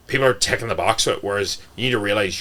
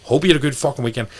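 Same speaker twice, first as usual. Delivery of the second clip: chirpy check-in; 6 semitones higher, 3 dB louder than usual. Retold or imitated. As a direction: pump them up with each wish. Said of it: "I'm like".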